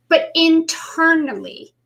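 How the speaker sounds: a slow unvoiced whisper. Real, not acted. Coach telling viewers about inner beliefs, in a whisper. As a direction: hush it as if sharing a secret.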